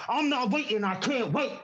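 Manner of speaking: rhythmic performance poetry, building and falling; spoken word poem. Acted. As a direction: perform it like a slam poem on stage.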